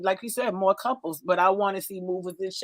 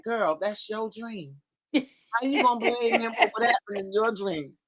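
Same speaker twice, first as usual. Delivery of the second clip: dismissive family quote. Retold or imitated. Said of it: "and they like".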